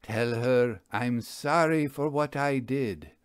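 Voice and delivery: even-paced intoned Tell her I'm sorry; the magician first intones the ghost's message; intoning. Acted. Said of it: "He intoned".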